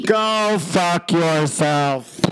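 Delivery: slow mock outrage.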